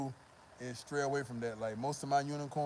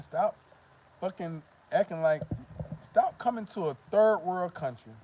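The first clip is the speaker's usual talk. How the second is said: scolding rant; 2 semitones higher, 5 dB louder than usual. Real, not acted. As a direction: scold them with rising frustration. Scolding foreign men.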